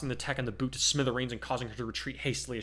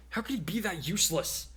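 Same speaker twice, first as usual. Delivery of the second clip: put-on higher exasperated girl voice; girl's voice; 7 semitones higher than usual. A narrator's reading. Jiro's voice.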